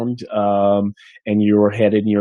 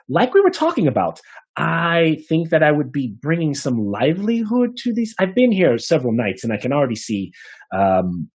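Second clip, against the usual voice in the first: smooth-talking bard; 2 semitones higher than usual. Acted. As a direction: sell yourself to the innkeeper, pitched up. Half elf bard pitching innkeeper.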